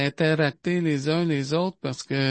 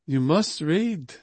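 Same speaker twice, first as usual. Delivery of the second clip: fatherly tone. Retold or imitated. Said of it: "d'un ton comme un père qui parle à ses enfants".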